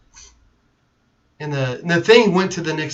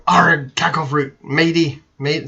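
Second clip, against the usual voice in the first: put-on mixed pirate and Aussie accent; slower than usual. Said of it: "that's just mixing them".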